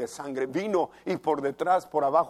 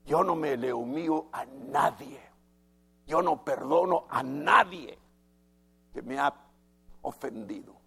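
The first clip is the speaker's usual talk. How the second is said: proud unforgiving attitude. Retold or imitated. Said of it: "Esa es la actitud del corazón".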